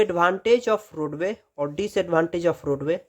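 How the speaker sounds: advantage of roadway drawn out word by word; very slow heading read; slow dictation. Shown as a demonstration.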